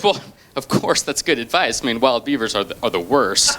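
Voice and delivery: lightly voiced little girl dropping low and knowing; a hint of a solemn little expert; wise girl child. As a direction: agree like a kid who knows it all. Girl child agrees in story.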